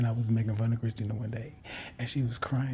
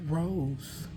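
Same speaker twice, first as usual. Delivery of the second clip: put-on pitched-up girlish grossed-out denial; Christina's disgust; 7 semitones higher, 4 dB quieter than usual. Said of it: "She's like".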